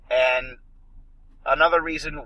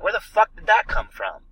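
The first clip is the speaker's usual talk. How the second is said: higher-pitched, exasperated disbelief; baffled outburst; 5 semitones higher, 4 dB louder than usual. Retold or imitated. Moviegoer reacting to an out-of-place accent, baffled outburst. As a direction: act out being thrown by what you heard.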